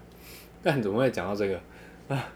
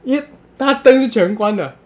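laughing narration; 12 semitones higher, 11 dB louder than usual. Real, not acted. Teller laughing through the story.

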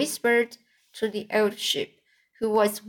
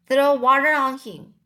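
urgent call; 4 semitones higher, 5 dB louder than usual. A narrator's reading. Urgent call, pig fainted.

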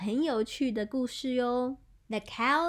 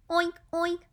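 two short oinks, slightly raised; pig oinking; 5 semitones higher than usual. Shown as a demonstration. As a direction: lightly imitate a pig. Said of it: "这两种声音是猪".

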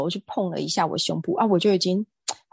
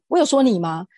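raised, louder voice flinging the question back; loud retort; 4 semitones higher, 6 dB louder than usual. Retold or imitated. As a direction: snap it back loudly, challenging him. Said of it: "我就大声的回答说". (大声反问)

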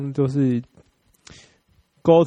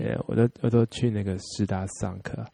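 put-on ABC accent; 5 dB quieter than usual. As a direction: play an American-born Chinese struggling with Mandarin. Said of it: "有了，有了，开始有出来了".

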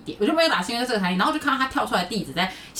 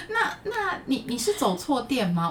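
timid clerk through laughter; 6 semitones higher, slower than usual. Retold or imitated.

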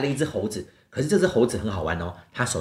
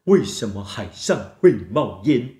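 puzzled penguin; slower than usual. Acted. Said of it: "企鹅有一天突然就看着海上就说".

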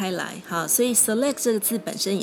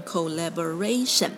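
collaboration stressed on "ra", right before "tion"; 3 semitones lower than usual. Shown as a demonstration. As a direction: lean on "ra" in collaboration. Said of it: "会把重音拉到T I O N的前一个音节".

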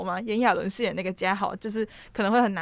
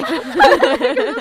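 尖声大笑; 14 semitones higher, 11 dB louder than usual. Real, not acted. 讲刘冠廷看钢管舞.

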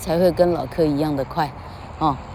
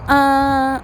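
啊 sung up high on one note; 7 semitones higher than usual. Shown as a demonstration. Teacher sings the high syllable in a stress drill. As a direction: lift 啊 to a high pitch. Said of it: "第一个音比较高".

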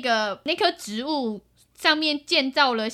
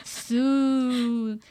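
excited bug chatter; 4 dB louder, much slower than usual. Acted. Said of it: "虫虫们就有一点兴奋".

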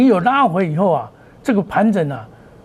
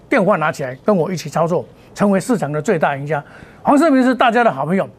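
hard sell ad. Acted. Pitches paid service hard.

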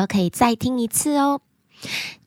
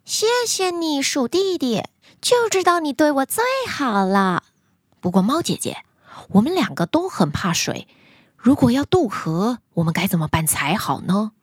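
cat sister voice. Acted. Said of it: "猫姐姐说".

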